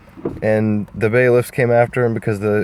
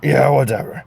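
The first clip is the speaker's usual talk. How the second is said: Shrek voice; 4 semitones higher than usual. Acted. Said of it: "Shrek was like".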